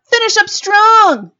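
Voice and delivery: high, loud and slow; rallying cry. Real, not acted. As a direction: punch the close. Rallying to close segment.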